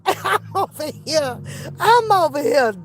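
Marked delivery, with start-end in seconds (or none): 0.1-1.4 laughing through the words; slow, softened words through a laugh; dying laughing. Real, not acted. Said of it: "I'm dying laughing".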